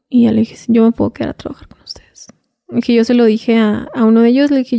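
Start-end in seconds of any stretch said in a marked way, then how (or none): 0.6-2.3 quick, scared whisper of agreement. Retold or imitated. Captive girl whispering she'll stay and work. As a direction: whisper it fast, giving in.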